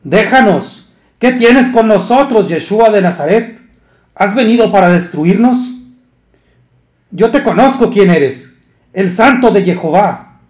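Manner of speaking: high, loud demonic cry, slowed in places; a demon crying out at Yeshua, high and loud; shrieking unclean spirit. Acted. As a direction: scream it like the possessed man in the synagogue. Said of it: "exclamó a gran voz diciendo".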